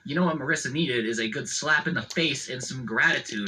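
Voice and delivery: pat her back with your voice; mock-gentle mom comforting her daughter; mock consoling mom. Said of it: "consoling her, patting her on the back, being like".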